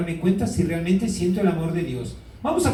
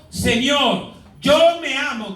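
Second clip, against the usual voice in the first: a higher, louder declaration of self-love; preacher modelling the words for the congregation to repeat, raised and firm; declaring out loud; 5 semitones higher, 4 dB louder, slower than usual. Shown as a demonstration. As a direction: say it boldly, as to the mirror. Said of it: "Y van a decir frente al espejo".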